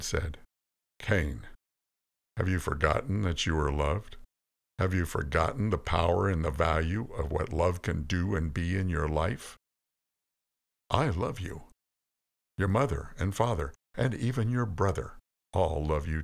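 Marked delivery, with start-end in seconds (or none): none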